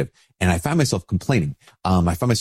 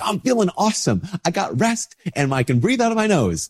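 mock cheerful; 10 semitones higher than usual. Hypothetical cheerful healthy answer.

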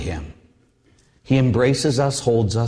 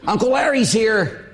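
calling out; 10 semitones higher than usual. Retold or imitated. Sister announcing uncle at door.

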